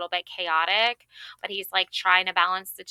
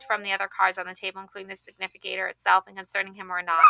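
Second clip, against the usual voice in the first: quick, flat reading from the tarot book; rapid book reading; much faster than usual. Acted. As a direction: rattle through the book text quickly. Reads tarot book text fast.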